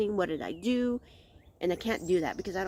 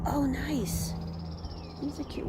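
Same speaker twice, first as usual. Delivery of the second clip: high, delighted little exclamation; suddenly charmed by what she sees; pleased surprise; 8 semitones higher, slower than usual. Real, not acted. Noticing plants mid-sentence.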